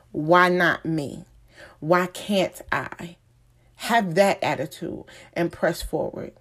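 emphatic exhortation in measured phrases; motivational preaching. Acted. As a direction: preach it with conviction, leaning on key words. Motivational preaching, plainer at sign-off.

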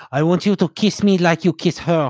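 put-on French accent. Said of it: "Good French, good French accent there".

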